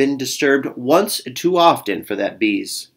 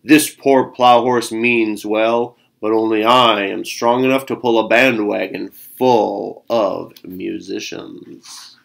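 slow ox voice; 2 semitones lower than usual. Acted. Ox voice continues slowly.

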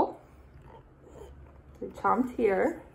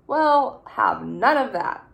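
stern declaration; 5 dB louder than usual. Acted. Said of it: "declared Caterpillar".

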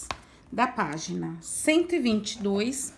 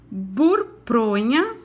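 "burpronha" drawn out even slower, each syllable clear; very slow, careful word; much slower than usual. Shown as a demonstration. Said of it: "Caprichem na pronúncia".

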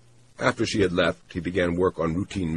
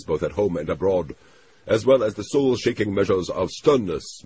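lightly voiced Japanese official, pitched up and earnest; solemn dictation; 4 semitones higher, 5 dB louder than usual. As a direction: dictate a grand, moved tribute. Tagomi dictates a solemn tribute.

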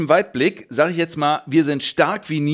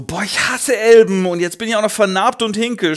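whiny villain; 7 semitones higher, 5 dB louder than usual. Acted. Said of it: "Und er so".

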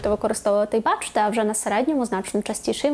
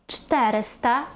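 ЧТЕриста, first vowel stressed; third-from-last stress; slower than usual. Shown as a demonstration. Teacher modelling the numeral, stress third from end. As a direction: hit ЧТЕ in "чотириста". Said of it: "а на третій".

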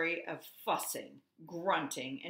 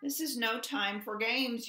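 loud scolding; yelled; 6 semitones higher, 4 dB louder than usual. A narrator's reading. Goose yells at the bluebird, scolding. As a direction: tell the bird off. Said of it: "yelled Goose".

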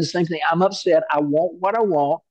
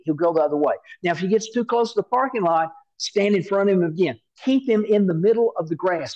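brief the little guard like an eager mom, lightly played; lightly voiced mom; 2 semitones higher than usual. Mother telling her son how to guard the toad, lightly voiced and brisk.

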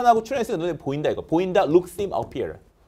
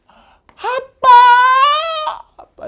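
very high, slow drawn-out call; son crying out; 13 dB louder, much slower than usual. Acted. Son calling out to his father across the room. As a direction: stretch the call to dad. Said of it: "아들이 외치죠".

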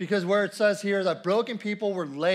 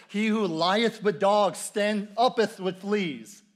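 mock archaic quote; slower than usual. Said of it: "Benjamin Franklin has famously quoted".

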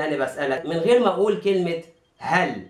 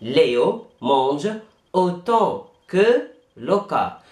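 slow, pauses between word groups; slow repeat; much slower than usual. Shown as a demonstration. Teacher repeating in chunks for students. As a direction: break it into chunks. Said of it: "يعني ليو يأكل بشكل متساوي".

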